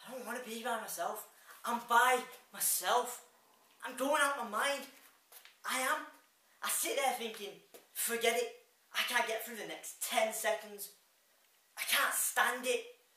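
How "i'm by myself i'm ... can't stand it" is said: desperate outburst. Acted. Despairs at being alone.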